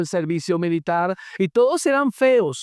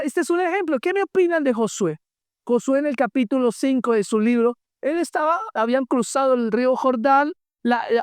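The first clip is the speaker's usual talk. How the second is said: ordinary talk, nothing marked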